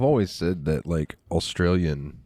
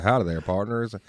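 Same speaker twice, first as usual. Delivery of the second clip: Clint Eastwood. Retold or imitated. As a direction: play a movie cowboy with a Western accent. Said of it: "Clint Eastwood from a Western movie".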